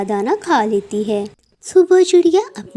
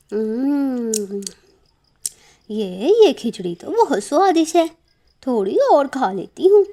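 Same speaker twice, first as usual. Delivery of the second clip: greedy crow savouring; 3 semitones higher than usual. Acted. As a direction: relish the stolen food. Crow savouring stolen food.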